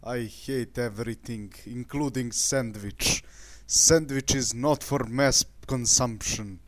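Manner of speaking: put-on Russian accent in broken English; mock Russian accent. Ranting at unexploded sandwiches in a mock Russian accent. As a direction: rant like a hammed-up Russian. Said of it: "I need more Russian in my accent".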